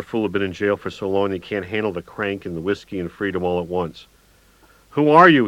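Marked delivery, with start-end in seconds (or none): 4.9-5.5 much higher and louder scream. A narrator's reading. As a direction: scream it at the stranger. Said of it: "he screamed".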